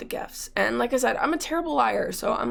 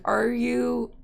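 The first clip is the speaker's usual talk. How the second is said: retold exasperation; much slower than usual. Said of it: "I roll my eyes".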